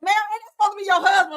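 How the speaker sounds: quick, high-pitched puzzled question; fast, high put-on operator voice; mock emergency operator. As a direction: rattle it off high like a baffled dispatcher. Acts out emergency operator questioning her.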